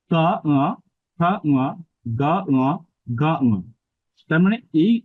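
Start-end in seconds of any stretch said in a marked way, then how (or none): 0.1-3.6 কা, খা, গা, ঘা from the throat, each followed by a nasal ঙ in "উয়া"; pronunciation drill pairing each throat consonant with a nasalised "উয়া", tongue staying put; throat-and-nose drill. Shown as a demonstration. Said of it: "জিহ্বাটা নির্দিষ্ট জায়গায় বসে আছে". (কা, খা, গা, ঘা কণ্ঠে, "উয়া" নাসিকাতে উচ্চারণ)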